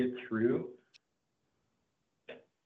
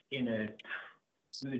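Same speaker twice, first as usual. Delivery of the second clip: inside a barrel; 4 dB quieter, much faster than usual. Real, not acted. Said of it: "you sound like you're in a barrel".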